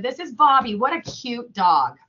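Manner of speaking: mildly excited dog admirer; role-play gushing. Acted. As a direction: play-act gushing over a cute dog. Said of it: "do a little, like, role play".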